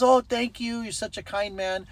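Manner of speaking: high-pitched gushing thanks; grateful woman, imitated. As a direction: mimic her grateful praise. Grateful woman voiced in retelling.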